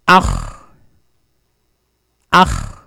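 Ach with a low throaty ch at the end; isolating the sound. Shown as a demonstration. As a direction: drill the guttural ch in Ach. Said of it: "It's ik".

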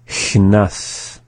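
CHNAS joined up, shorter hiss into NAS; up to speed. Shown as a demonstration. Teacher going through the word for learners, up to speed. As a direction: say CHNAS in one go. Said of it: "go through the same process".

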